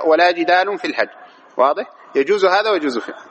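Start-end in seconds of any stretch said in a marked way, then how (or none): 0.1-1.1 "جدال" ending in -un, jidalun; "جدال" with nunated damma; variant reading. Shown as a demonstration. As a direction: recite "جدال" with final -un. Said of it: "وفي قراءة أخرى عشرية".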